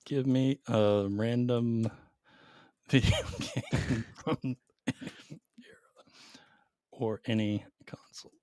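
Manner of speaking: slow, soft, spelled-out reading; dictating while typing. Real, not acted. Typing the request to the AI, slow soft dictation. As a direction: say it word by word as you type it. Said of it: "why do you type like this".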